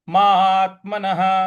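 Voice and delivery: महात्मनः with a slight push on मा; light stress on मात्मनः. Shown as a demonstration. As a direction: lean lightly on the मा. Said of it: "हल्का सा बल लगाना है".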